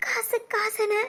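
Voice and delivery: soft, quiet regretful crying; mother softly weeping over lost years; tearful. Acted. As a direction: let the regret come out softly through tears. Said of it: "அழாதீங்க".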